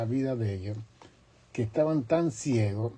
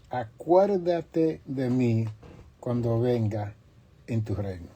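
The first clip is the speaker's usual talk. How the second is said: slow, raised plea that sinks at the end; pleading thief. Acted. Thief on the cross begs Jesus to remember him, slow raised plea. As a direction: call out slowly to Jesus, begging.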